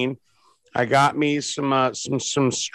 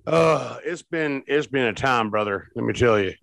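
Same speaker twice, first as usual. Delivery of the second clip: put-on hillbilly accent; 4 semitones lower than usual. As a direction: talk like a backwoods hillbilly. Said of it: "you're stuck in hillbilly accent".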